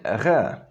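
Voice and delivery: guttural French-style R; too-French R. Shown as a demonstration. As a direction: say R in the back, French fashion. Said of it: "sounding way too French".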